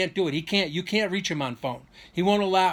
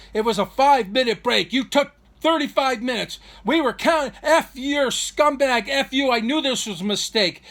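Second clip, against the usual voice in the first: raised, high-pitched imitation of a furious brother; worked-up mock yelling; retold angry screaming; 8 semitones higher, 5 dB louder than usual. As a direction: reenact a brother's tirade, loud and high. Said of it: "He comes screaming out the door".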